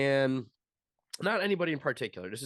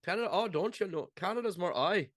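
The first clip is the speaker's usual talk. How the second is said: put-on high, swooping Canadian accent; mock Canadian accent; 5 semitones higher than usual. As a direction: put on an exaggerated sing-song Canadian accent. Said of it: "the downward descendants of Canada that speak with that".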